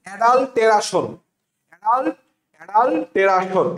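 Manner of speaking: অ্যাডাল্টেরাশন drilled as adal-te-ra-shon; spelling pronunciation. Shown as a demonstration. Teacher repeating the answer, spelling pronunciation. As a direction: sound out অ্যাডাল্টেরাশন with a full "ra". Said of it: "কি উচ্চারণ হবে?".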